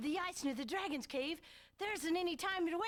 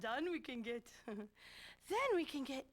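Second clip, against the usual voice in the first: a slow, lower hint of Arnold; slow Arnold impression; 3 semitones lower, slower than usual. Voice actor slipping into a mock Arnold line. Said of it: "I was doing Arnold".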